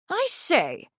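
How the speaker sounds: high-pitched hail; calling out. A narrator's reading. Hailing servants hurrying to the stable, calling out. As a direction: hail a servant across the yard. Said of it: "he called to one of several servants".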